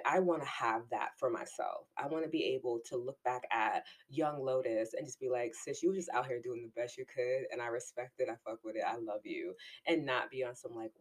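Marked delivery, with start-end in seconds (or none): 5.5-9.5 soft and loving, trailing quieter; tender. Retold or imitated. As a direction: speak gently to your younger self. Tender words to younger self.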